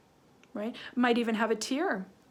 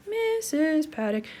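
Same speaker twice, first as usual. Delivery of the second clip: slow, higher, stretched-out syllables; slow sounding-out; 5 semitones higher, slower than usual. Real, not acted. Teacher writing her name, slow sounding-out. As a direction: draw it out in time with the pen.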